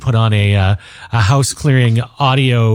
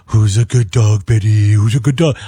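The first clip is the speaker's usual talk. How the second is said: slow, lower sing-song pet talk; baby talk to dog; 3 semitones lower than usual. Retold or imitated. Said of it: "is it like".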